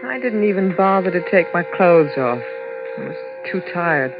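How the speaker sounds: voice-over rising into dread; story narration. A narrator's reading. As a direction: tell the nightmare as it tightens. First-person voice-over of the dream.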